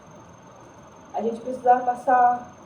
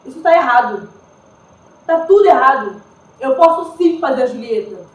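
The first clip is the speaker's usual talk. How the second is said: indignant protest; 7 dB louder than usual. Acted. Rejected for her skin colour.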